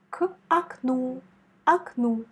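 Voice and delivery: окну with the accent on the final у; stress on окну. Shown as a demonstration. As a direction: lean on the last syllable of окну. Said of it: "On met l'accent sur ou". (accent sur le у final d'окну)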